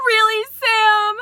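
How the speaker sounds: wronged ex confronting her; hammed-up jealous ex; angry ex. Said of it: "She goes".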